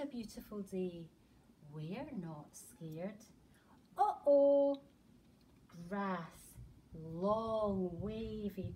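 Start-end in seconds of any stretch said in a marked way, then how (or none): 4.0-4.8 uh-oh. Acted. Trouble ahead in bear story.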